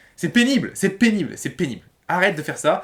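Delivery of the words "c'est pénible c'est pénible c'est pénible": irritated, fed-up nagging with swooping exasperated pitch. Telling listeners to stop complaining that they are tired: getting annoyed. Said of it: "quand je dis c'est pénible en m'énervant".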